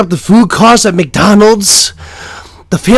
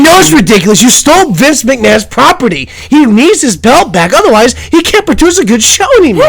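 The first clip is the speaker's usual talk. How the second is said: raised, high accusing rant; mock outrage; 5 semitones higher, 4 dB louder than usual. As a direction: scold the thief in loud, high exasperation. Mock interrogation over a stolen belt.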